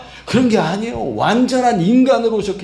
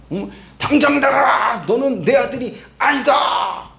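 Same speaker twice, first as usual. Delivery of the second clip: high, strained mock shout; angry father; 4 semitones higher than usual. Father disowning and throwing out his son, mock furious shout. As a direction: imitate a father cursing out his child. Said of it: "화를 내고".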